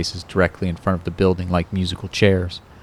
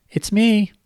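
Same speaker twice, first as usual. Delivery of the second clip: much higher girlish voice with a hint of a man underneath; a grown man faking a little girl, pitched way up; babyish high voice. Kyle faking Kate's voice on the phone to Ron, high and babyish. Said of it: "in a babyish high voice".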